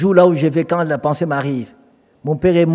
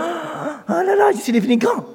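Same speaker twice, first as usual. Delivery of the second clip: boastful Pierre; 10 semitones higher, 5 dB quieter than usual. Retold or imitated. Pierre boasting about his new power.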